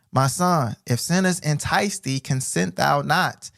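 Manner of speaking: slow, solemn reading of the verse; measured preacher's reading; scripture reading. Acted. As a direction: read it like holy writ, slowly.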